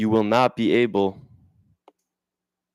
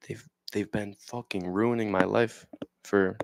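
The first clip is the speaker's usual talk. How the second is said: bitter whisper; 6 dB quieter than usual. Real, not acted. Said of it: "It's like an anger".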